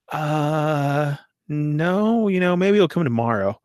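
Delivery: mock a doubtful, stalling answer; hesitant reply. Package holder doubts it has arrived, hesitant.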